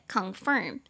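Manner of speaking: "confirm" with stress on the last syllable "firm"; light "con", stressed "firm" in "confirm"; second-syllable stress. Shown as a demonstration. Teacher showing the stressed syllable, "confirm" stressed on "firm". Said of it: "重音节在第二音节".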